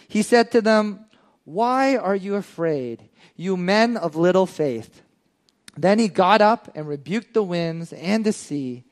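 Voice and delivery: steady reading of a Bible passage; measured scripture read. Acted. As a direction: read the verse out to the congregation. Reads scripture aloud.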